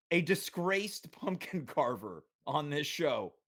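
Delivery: real chuckle breaking into the announcement; holding back laughter. Real, not acted. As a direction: try to get through it without laughing. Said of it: "can't even get through it without laughing".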